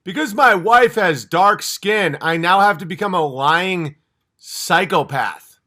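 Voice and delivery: mock-earnest whine, stretched out; mock confession. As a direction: spell it out slowly as a ridiculed figure. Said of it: "having that life where you're like".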